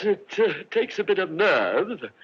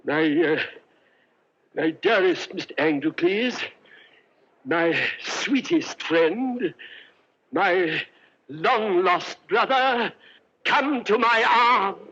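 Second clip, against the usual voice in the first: forced affection. Acted. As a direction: force out sweet words nervously. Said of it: "saying something affectionate".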